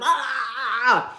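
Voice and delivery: drawn-out imitated "ah"; mock cry. Speaker retelling her outburst to the family, mock wail. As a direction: wail it out, half laughing.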